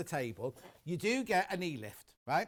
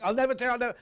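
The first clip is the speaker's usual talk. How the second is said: raised, louder despairing wail; mock panic; 6 semitones higher, 8 dB louder, much faster than usual. To viewers, mimicking a new learner's hammed-up despair. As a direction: play the hopeless learner driver giving up. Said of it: "You think".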